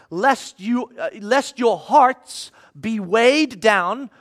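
slow, deliberate Bible reading; scripture reading. Acted. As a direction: read the verses slowly and solemnly. Reads scripture aloud.

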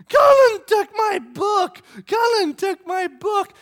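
high, very loud, drawn-out tattling; imitated toddler screaming. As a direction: shriek the complaint like an outraged three-year-old. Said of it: "this is what she's screaming".

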